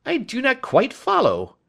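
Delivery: high, loud puzzled outburst; startled. A narrator's reading. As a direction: jump up in pitch, caught off guard. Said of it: "Lestrade looked startled".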